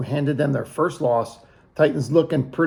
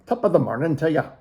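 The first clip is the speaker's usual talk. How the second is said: quick, lightly put-on Irish accent; a hint of mock Irish; much faster than usual. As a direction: toss off a fast Irish greeting. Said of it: "It's Irish".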